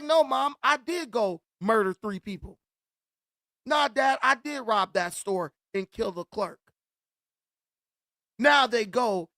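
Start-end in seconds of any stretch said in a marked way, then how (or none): 0.0-2.6 defiant correction. Retold or imitated. Child corrects mom's denial, mock defiant. Kids contradict parents with confessions. 3.7-6.6 defiant correction. Retold or imitated. Child corrects dad's denial, mock defiant. Kids contradict parents with confessions.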